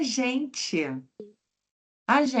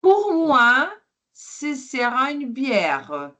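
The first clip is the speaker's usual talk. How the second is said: bright customer order; 4 semitones higher than usual. Acted. Teacher plays café customer.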